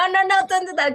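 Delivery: loud, firm string of no's; emphatic no. Shown as a demonstration. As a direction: refuse loudly, like telling someone to stop. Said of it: "¿Cómo le dices que no".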